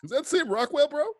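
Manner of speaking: high-pitched stoned bro; dazed stoner asking in wonder. Retold or imitated.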